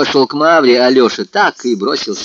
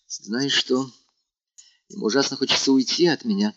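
quick hushed aside, much softer; hurried whisper; 7 dB quieter than usual. A narrator's reading. Natasha confides in Vanya while Alyosha is out, hushed. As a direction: confide quickly under breath. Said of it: "шепнула мне наскоро Наташа".

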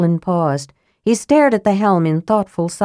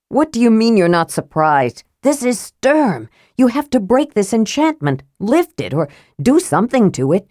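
higher, urgent demand; agitated protest; 5 semitones higher than usual. Acted. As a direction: push him to fix it now. Karaman pleads for his friend.

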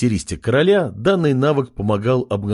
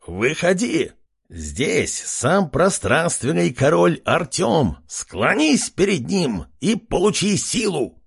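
high, slow squealing proclamation; proud pig herald; 6 semitones higher, slower than usual. Acted. Pig spearman hails his king, proclaiming. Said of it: "выкрикнул один из свиней".

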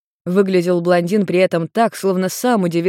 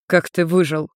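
stern. A narrator's reading. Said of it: "сердито спросил Йен".

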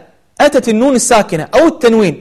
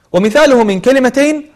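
normal talking voice

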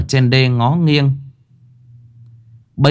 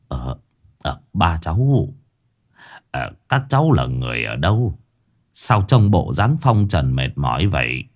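lightly voiced old man; 5 semitones lower than usual. Old man Xuân asking the tired children, lightly voiced and hesitant. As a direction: gently ask as a limping old man. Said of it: "ông cụ tập tễnh đi tới".

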